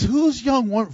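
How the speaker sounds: a touch of polite, dignified asking; respectful. Retold or imitated. Boaz asks the foreman respectfully, lightly voiced. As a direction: ask it with courtesy, not lust. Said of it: "Very respectful".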